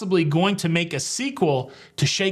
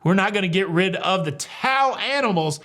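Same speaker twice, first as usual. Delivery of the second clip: high-pitched mock British accent; John Heald; 5 semitones higher than usual. Brand ambassador defending towel animals, mock British accent. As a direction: play an indignant Brit in British accent. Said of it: "he said it in a British accent".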